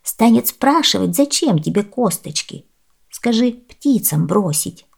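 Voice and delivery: a hint of a kindly old woman; lightly voiced old woman.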